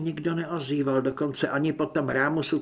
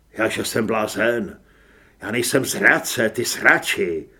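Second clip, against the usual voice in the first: loud, low retort; angry accusation; 4 semitones lower, 6 dB louder than usual. A narrator's reading. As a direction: throw the insult back with contempt. Armed narrator accuses Grant of treason. (naštvané obvinění)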